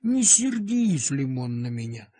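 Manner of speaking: calm a frightened little dog, slowly; gentle soothing. Acted. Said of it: "стал я его ласково успокаивать".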